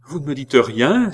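high, loud demanding question; cry out. Acted. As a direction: snap the question at them. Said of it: "s'écria-t-elle".

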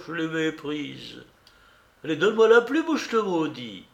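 put-on high-pitched scornful old man; old beggar. Beggar refusing poor and kin, scornful high voice.

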